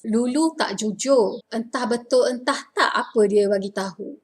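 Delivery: tak jujur, entah betul said in spoken Malay; spoken Malay sentence. Shown as a demonstration. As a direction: read it as natural speech. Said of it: "I go with the formal pronunciation first".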